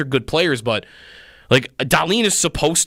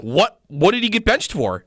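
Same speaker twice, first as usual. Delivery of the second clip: indignant mock yell, pitched higher; retold yell; 6 semitones higher than usual. Fan retells his outburst over a benched player, mock yelling. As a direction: re-enact yelling at the game, voice raised in pitch. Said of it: "I'm, like, yelling, like".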